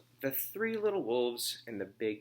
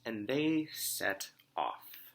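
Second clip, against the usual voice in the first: whispered aside; much slower than usual. Acted. Teacher whispering as the wolves leave. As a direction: let it fade to a hush.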